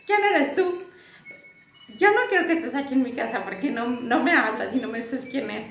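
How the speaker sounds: retold outburst, high and loud, easing by the end; confronting the spirit. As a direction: play the boy ordering the presence out, fast at first. Son confronting the spirit at home.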